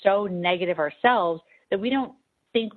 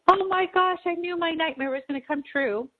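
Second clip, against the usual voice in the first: imitating devastated client; 11 semitones higher than usual. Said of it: "And she's like".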